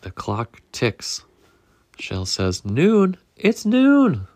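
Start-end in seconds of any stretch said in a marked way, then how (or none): 2.6-4.3 high, loud alarmed cry of noon; shocked egg shouting the time. Acted. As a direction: panic as the clock strikes. Shell panics at the clock.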